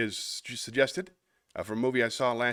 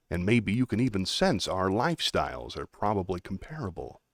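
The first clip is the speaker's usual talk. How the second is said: lightly voiced, trying too hard to sound regular; a hint of a flat, studied everyman; American Psycho voice; 2 semitones lower than usual. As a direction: Patrick Bateman monologue, lightly voiced. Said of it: "So this is my American Psycho voice".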